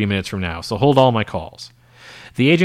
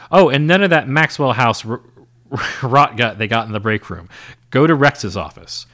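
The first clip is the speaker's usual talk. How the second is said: raised voice calling across the office; yelling after her; 5 dB louder than usual. Acted. Agent calls out to departing secretary, a raised call. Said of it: "Marvin yells at her".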